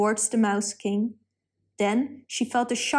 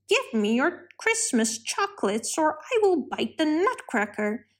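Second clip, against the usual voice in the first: a lightly voiced, higher mouse king making threats; 5 semitones higher than usual. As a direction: threaten like a greedy little rodent ruler.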